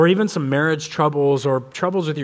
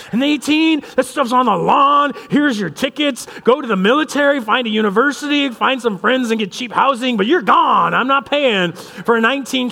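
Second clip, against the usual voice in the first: mock rant; 5 semitones higher than usual. Dad ranting to his wife about the son leaving home. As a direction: huff and puff a playful tirade. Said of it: "That's my rant in the background".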